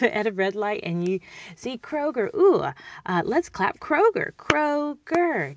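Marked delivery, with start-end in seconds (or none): 2.3-5.6 excited. Shown as a demonstration. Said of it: "excited game in the car".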